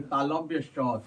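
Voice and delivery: तालव्य स slow, with the sound stretched out; drawn out talavya sa. Shown as a demonstration. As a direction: stretch तालव्य स, pulling each syllable long. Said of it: "खींच कर बोलना है ना".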